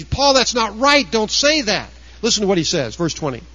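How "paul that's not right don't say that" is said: higher, scolding objector; mock objection. Preacher voicing a liberal critic scolding Paul, higher. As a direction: imitate a critic telling Paul off. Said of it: "You would say".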